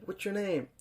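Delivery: lightly voiced cop asking the doll; mock cop. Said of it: "And he's like".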